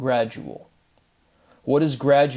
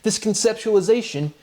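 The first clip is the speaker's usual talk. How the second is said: mock bewildered; 7 semitones higher than usual. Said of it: "and you're like".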